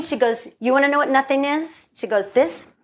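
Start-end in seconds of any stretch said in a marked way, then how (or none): 0.6-1.9 lightly faked Latina accent, higher, challenging; amateur Latina accent, rising challenge; bad Latino accent. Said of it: "doing a very bad Latino accent". 2.3-2.7 put-on amateur Latina accent, punchy reveal; bad Latino accent. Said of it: "doing a very bad Latino accent".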